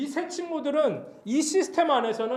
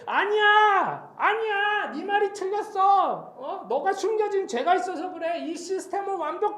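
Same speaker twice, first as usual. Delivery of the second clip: high, loud acted scolding with drawn-out words; shouted rebuttal; 12 semitones higher, 4 dB louder than usual. Friends accuse Job of hidden sin, acted high shouting. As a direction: contradict forcefully at the top of the pitch range.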